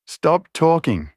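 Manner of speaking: high, slow raging shout; furious scream. A narrator's reading. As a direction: snap it out in a rage. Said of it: "I screamed in a fit of rage".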